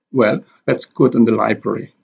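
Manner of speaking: "Well" stressed as its own beat, then the rest. Shown as a demonstration. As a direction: lean on "Well" before "let's go to the library". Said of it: "well here is stress".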